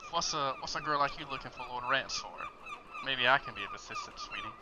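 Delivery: a lightly voiced sleazy thug, leering; sleazy, mocking come-on; seedy thug. Seedy guy hitting on the girl at the bar, lightly voiced and leering. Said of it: "they say".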